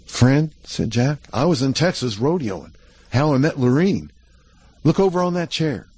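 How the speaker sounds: put-on a shaky, excited young cowboy; nervous cowboy showing off his news; eager cowboy Jack. Jack voiced higher.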